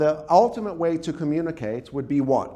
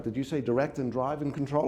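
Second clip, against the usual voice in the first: eager critical parent; 5 semitones lower, 6 dB quieter than usual. Acted. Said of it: "You're like".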